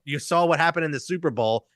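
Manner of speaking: ordinary talk, nothing marked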